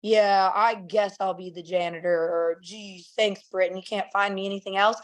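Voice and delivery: grudging acceptance, slightly low and subdued; mock reluctance. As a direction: imitate an unenthusiastic job seeker, lightly. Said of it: "You don't want someone to be like".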